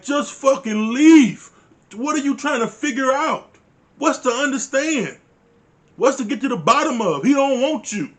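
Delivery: high, exasperated plea with a loud first burst; exasperated outburst. Acted. Viewer urging Paige to walk out, exasperated. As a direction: plead loudly for her to see sense.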